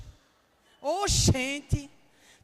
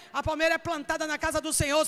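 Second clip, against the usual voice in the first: ordinary talk, nothing marked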